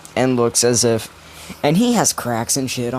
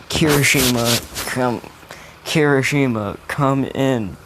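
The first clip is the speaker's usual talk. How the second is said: monotone announcer; 2 semitones higher, slower than usual. Retold or imitated. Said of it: "monotone and sad".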